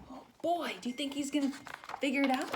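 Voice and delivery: high, lively teasing question; eager question. Real, not acted. Reader asking listening children, high and eager. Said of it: "reader asks children".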